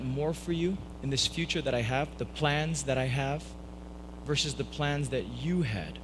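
lightly voiced gentle father; kind, gentle father. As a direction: speak it kindly, with measured understatement. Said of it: "as a kind, gentle father saying".

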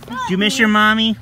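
high and loud, bursting with joy; excited pet greeting. Real, not acted. Mother greeting her returned dog, excited high call. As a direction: gush it out to the happy dog.

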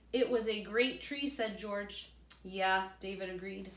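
put-on reading aloud to children; story narration. A narrator's reading.

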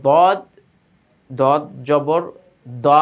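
দদ and দ thick, from the tongue's side on the molars; thick, heavy sound. Shown as a demonstration. Teacher showing pupils the letter দদ, thick sound. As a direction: make the দ heavy and full. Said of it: "আওয়াজটা মোটা হবে".

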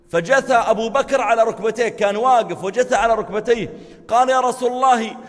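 high, loud and pleading, building to a cry; impassioned confession. Acted. Abu Bakr kneels before the Prophet, crying out his guilt. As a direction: cry out your guilt on your knees.

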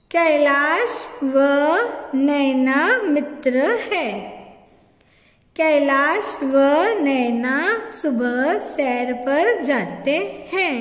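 very slow, word-by-word reading; slow read-aloud. Shown as a demonstration. Teacher reads sentences slowly for children to repeat. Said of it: "मैं ये पढ़ रही हूँ".

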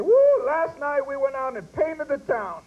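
slow, loud, excited whoop. Retold or imitated. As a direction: cheer it out, drawn out. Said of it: "get excited and say".

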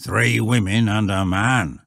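put-on grave old shepherd; solemn rustic pronouncement, pitched slightly up. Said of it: "said the shepherd gravely".

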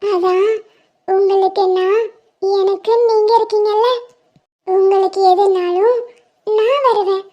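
put-on a tiny girl promising to stay; sweet child reassuring her friend; little girl voice. Plays little girl Percy.

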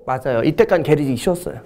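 ordinary delivery

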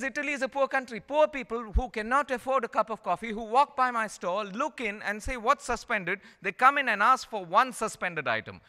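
lightly voiced Italian barista explaining; earnest counter guy. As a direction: lift the voice to play the café man. Counter guy explains suspended coffee.

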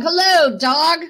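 storybook duck hailing the dog; cheery duck greeting. Acted. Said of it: "said Dog".

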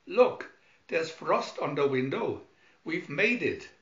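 excited relief; relieved excitement. Acted. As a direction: cry out in relief. Relief after danger.

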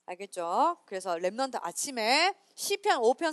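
ordinary talk, nothing marked

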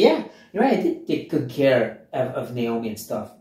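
hammed-up smug self-praise; mock boasting. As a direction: play the pleased, self-satisfied boaster. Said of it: "she doesn't start boasting and say".

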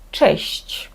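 честь with hard CH first, soft SH-CH last. Shown as a demonstration. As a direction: Polish cheshch, hard start and soft ending. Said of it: "Твердий і м'який". (честь: тверде Ч, потім м'які ЩЬ-ЧЬ)

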